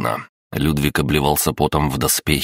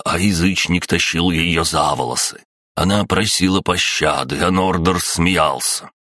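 solemn preacher proclaiming; lightly intoned sermon voice; booming biblical narration; 3 semitones higher than usual. Acted. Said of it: "вещать торжественным голосом".

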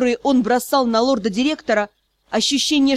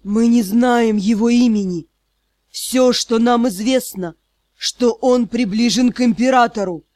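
wheezing rasp. Acted. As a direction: croak it through broken teeth. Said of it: "прохрипел".

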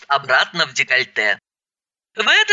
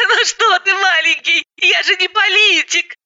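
much higher, chirping; chirpy high voice; 13 semitones higher than usual. Acted. Roza arriving, chirping high to the women. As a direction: chirp like a bubbly woman. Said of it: "рассмеялась Роза".

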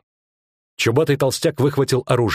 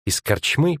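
touch of a tremble, slightly raised; trembling voice; 5 semitones higher, slower than usual. Acted. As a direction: repeat it fearfully. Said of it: "повторила она дрожащим голосом".

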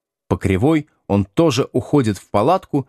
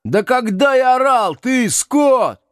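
yelling; slower than usual. A narrator's reading. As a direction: yell back indignantly at the accuser. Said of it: "орёт Градусов".

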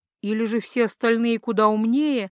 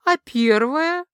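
higher, drawn-out, half-moved question; almost touched; 6 semitones higher, 4 dB louder, much slower than usual. A narrator's reading. Goddess asking the dark god about his mistake, almost touched. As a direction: ask slowly, lifted, as if a little touched. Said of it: "почему-то почти растроганно спросила богиня".

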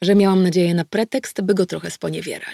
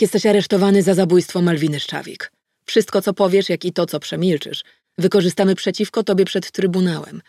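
cold, firm arrest formula, louder; dispassionate; 3 dB louder than usual. Acted. Detective arrests a wife-killer, cold and firm. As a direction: read him his rights without emotion. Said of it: "oznajmiłam beznamiętnie".

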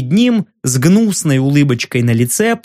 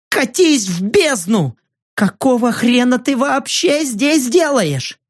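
higher, indignant shouting; angry outburst; 7 semitones higher than usual. Acted. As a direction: tell him to get lost, furious. Angry journalist shouting at Kane.

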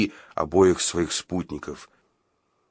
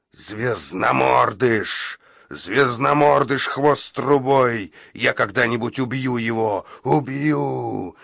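feral wasteland raider; 3 semitones higher, slower than usual. Acted. Monster roars his rage.

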